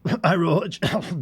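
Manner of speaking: laughing, drawn out slowly. Acted. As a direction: laugh through Irohich, stretched long. Laughing repeat of name.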